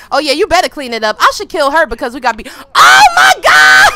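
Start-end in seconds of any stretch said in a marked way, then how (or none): 2.8-3.9 high, loud oh my God; shocked scream. Real, not acted. Player panicking as the reaper strikes, shrieking. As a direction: shriek in sudden alarm.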